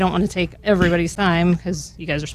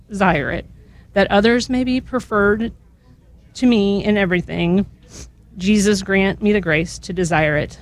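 prayer reading. Acted.

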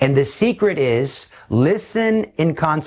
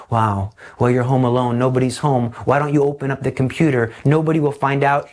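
tempting voice; faster than usual. Retold or imitated. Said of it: "this seductive voice".

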